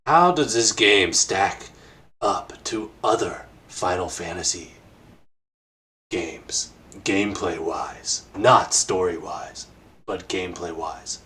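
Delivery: very slow, deliberate put-on voice with long pauses; Tim Rogers impression. Interviewer asks co-host a question, in a slow mimicked voice. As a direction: draw out each phrase, pausing heavily between them. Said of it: "I'll do it in the Tim Rogers voice".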